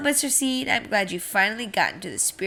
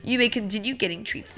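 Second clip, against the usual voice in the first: loud cheery correction to the crowd; loud announcement; 2 semitones higher, 7 dB louder than usual. Acted. Seed telling everyone the storm was a trick, loud. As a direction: announce the good news big.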